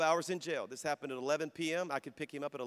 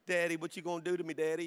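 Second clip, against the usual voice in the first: put-on helpless child; faster than usual. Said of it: "helpless little baby, baby face".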